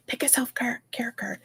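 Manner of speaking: imitating a hushed whispered prompt. Card reader relaying what they told her, whispered. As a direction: whisper it like a quiet nudge.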